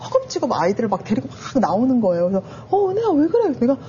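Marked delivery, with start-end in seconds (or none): 2.7-3.5 lightly voiced worried husband, higher pitch; higher-pitched retold question of concern; husband's concern. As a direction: imitate a startled spouse asking.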